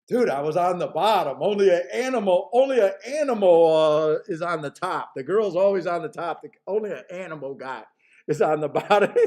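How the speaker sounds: dead serious country guy; deadpan serious. Retold or imitated. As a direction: say it totally straight-faced. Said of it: "he was deadpan serious".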